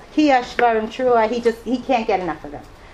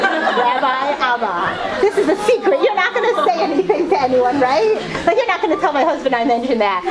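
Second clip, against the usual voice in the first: son's voice; 5 semitones higher, 4 dB louder than usual. Retold or imitated. Son begging her to keep secret.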